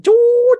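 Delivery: long, high, loud "juuut"; one sustained high-pitched zoom; zooming sound effect. Retold or imitated. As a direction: draw it out like a little robot zipping across. Imitates the robot zooming over.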